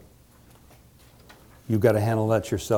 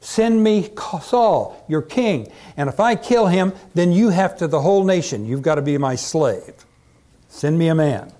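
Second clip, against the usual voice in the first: higher-pitched, emphatic taunt; haranguing challenge; 6 semitones higher than usual. A narrator's reading. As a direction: throw down a challenge to an army.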